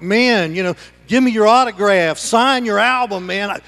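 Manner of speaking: lightly acted, excited rock-star fan; mock starstruck fan. Preacher mimicking Paul fawning over stoners, mock starstruck. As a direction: gush a little, as if imitating a fan. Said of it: "like they were rock stars".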